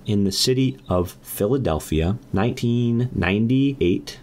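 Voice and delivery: slow, measured fairy-tale opening; storytelling. Acted. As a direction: spin it out like a bedtime tale. Opens a made-up story.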